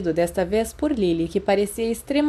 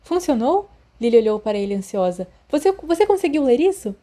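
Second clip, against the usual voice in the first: high, hopeful question; anxious eagerness; 4 semitones higher, 4 dB louder than usual. Acted. Lily anxiously asks Remus if he can read it, high and hopeful. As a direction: ask hopefully, pitched up.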